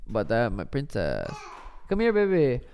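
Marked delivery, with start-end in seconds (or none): 1.9-2.6 cooing pet names. Real, not acted. Calling baby daughter over.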